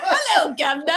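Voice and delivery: hammed-up British greeting, starting high; playful British caricature with laughter; mock British accent. Host defending his British to teasing co-hosts, jokey British accent. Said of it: "Your British is".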